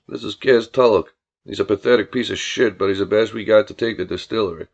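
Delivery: low-voiced country boss; brusque, disdainful Billy. Billy introducing Tulloch to his cousin, brusque low voice. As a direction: introduce him with open contempt.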